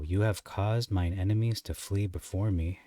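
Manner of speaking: slow, deliberate scripture reading, slowing further at the end. Shown as a demonstration. Teacher reading a verse slowly to his students. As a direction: take each phrase slowly for the class. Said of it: "I'm gonna read it slow".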